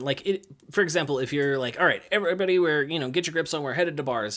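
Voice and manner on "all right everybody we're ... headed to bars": calling the group. Acted. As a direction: coach rallying the gym, raised voice. Coach addressing the whole group.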